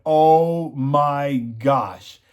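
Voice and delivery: slow, drawn-out oh my gosh in disbelief; reliving the moment of shock; stunned gasp. Retold or imitated. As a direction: let it hang there in shock. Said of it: "and I was like".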